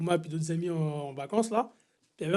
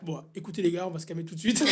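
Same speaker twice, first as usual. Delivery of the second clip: low-key, softer voice; dropping the act; 4 semitones lower, 10 dB quieter, faster than usual. Retold or imitated. Haunted-house actor breaking role to calm visitors, softly. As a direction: settle everyone down quietly.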